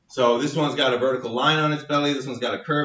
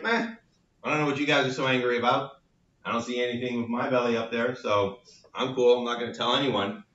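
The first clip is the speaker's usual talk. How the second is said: lightly voiced too-cool cartoon demon brushing off the fuss; nonchalant demon; 2 semitones lower, 4 dB quieter, faster than usual. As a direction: play it cool and unbothered. Unbothered demon among angry ones.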